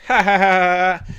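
mock group laugh. Everyone laughing at the dino egg joke, mock laughter. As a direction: ham up a canned laugh. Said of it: "And everyone goes".

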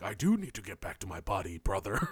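lightly put-on heroic voice ending on brother; a hint of a wrestler-style tough guy, half-hearted; Goliath voice. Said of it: "Can you do a Goliath impersonation?".

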